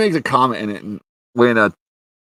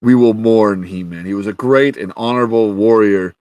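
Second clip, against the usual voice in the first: mock-proclaiming king, louder; lightly voiced regal proclamation; solemn king; 5 dB louder than usual. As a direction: declaim it like a royal eulogy. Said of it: "he's like".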